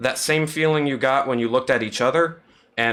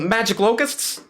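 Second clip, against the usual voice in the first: incredulous; 10 semitones higher than usual. Acted. Prince incredulous question.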